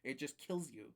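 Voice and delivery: lively, exasperated griping. Retold or imitated. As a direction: complain indignantly to anyone listening. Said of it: "bitching to people".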